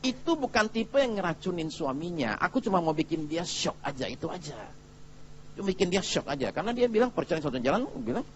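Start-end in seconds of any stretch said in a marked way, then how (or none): 0.1-6.5 confidential explanation. Retold or imitated. Pastor confidentially explains himself to wife.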